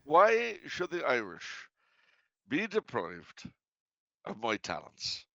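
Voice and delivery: mock-grand oration in an Irish accent; Irish brogue. Comedian defending his Irish imitation, mock-grand Irish brogue. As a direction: plead your case in a theatrical Irish brogue, with dramatic pauses. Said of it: "of my imitation of their manner of speech".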